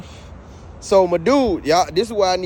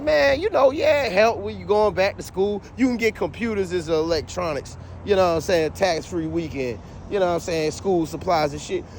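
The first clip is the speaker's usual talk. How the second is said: exasperated mock; 3 semitones higher than usual. Imitating store's explanation, exasperated.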